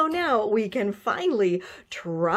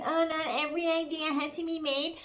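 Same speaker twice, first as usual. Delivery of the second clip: mocking quote; 2 semitones higher, 5 dB quieter, faster than usual. Mocking the commenter's words.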